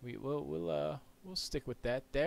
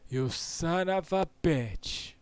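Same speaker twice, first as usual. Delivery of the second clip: drawn-out playful curse, higher and louder; mock angry yell; 6 semitones higher, 7 dB louder, slower than usual. Streamer playfully cursing at Dylan. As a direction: stretch the insult out.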